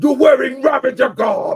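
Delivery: very high-pitched, big delivery. Doing a quick impression of Djimon Hounsou: Djimon Hounsou impression. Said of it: "my quick impression of, uh, Djimon Hounsou".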